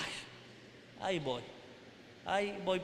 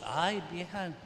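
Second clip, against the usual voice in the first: carnal husband; 4 dB quieter than usual. Retold or imitated. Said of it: "tan carnalmente".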